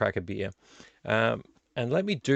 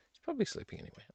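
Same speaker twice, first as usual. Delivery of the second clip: whispered aside; 12 dB quieter, much faster than usual. Shown as a demonstration. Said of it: "and he's probably sleeping anyway".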